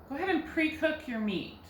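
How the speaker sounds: natural example sentence with "pre-cook" stressed on "pre". Shown as a demonstration. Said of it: "pre is getting the accent".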